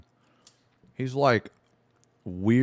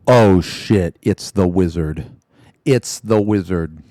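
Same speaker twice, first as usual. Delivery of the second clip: surprised; 4 semitones lower, 6 dB louder, slower than usual. Real, not acted. Surprised, the wizard arrives.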